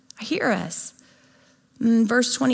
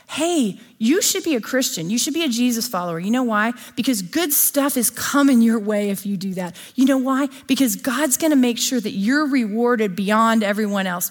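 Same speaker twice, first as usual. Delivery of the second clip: mock preacher pitch. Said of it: "If anybody ever says to you".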